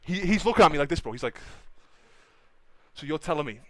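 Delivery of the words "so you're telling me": low, imitated Brazilian accent; halting mock Brazilian English; broken Brazilian accent. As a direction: lightly imitate a doubtful Brazilian man. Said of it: "in his broken, like, Brazilian accent".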